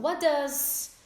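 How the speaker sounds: Frenderson stretched slowly; slow model question. Shown as a demonstration. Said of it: "Então".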